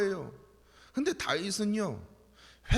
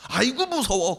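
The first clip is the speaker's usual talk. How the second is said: sarcastic fake fear, a bit louder; mock fright; 4 semitones higher, 7 dB louder than usual. Wicked men sneering at David with mock fear. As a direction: pretend to be scared, dripping scorn.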